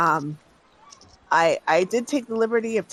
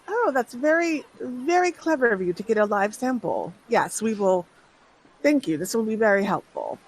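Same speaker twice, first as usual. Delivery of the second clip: higher, eager voice for the grateful doctor; the doctor lights up with thanks, pitched up; the doctor, pleased and grateful; 4 semitones higher than usual. Acted. The doctor thanking the party for the live sample, eager and higher.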